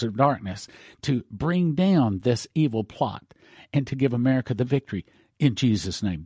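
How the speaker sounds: a demo of a commanding prayer, lightly voiced; warfare prayer. Shown as a demonstration. Preacher showing the congregation how warfare prayer sounds, declaring. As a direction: pray it out as a demonstration. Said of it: "Here's the way it sounds".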